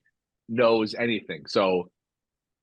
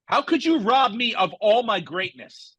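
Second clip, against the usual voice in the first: whiny Patrick Mahomes; 6 semitones higher than usual. Retold or imitated. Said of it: "What was the exact quote he used".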